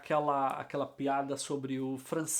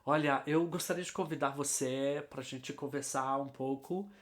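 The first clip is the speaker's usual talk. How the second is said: lightly voiced gringo making careful, polite conversation; softly spoken imitation of a foreigner trying his Portuguese; gringo courting Dorota; 4 dB quieter than usual. Gringo inviting Dorota to chat, in careful learner's Portuguese. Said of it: "imagina o gringo chegando pra Dorota".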